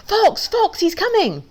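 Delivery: very high-pitched urgent cries; loud quacking alarm. A narrator's reading. Duck raising the false fox alarm, loud quacking. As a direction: squawk the warning out high. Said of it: "quacking as loud as he can".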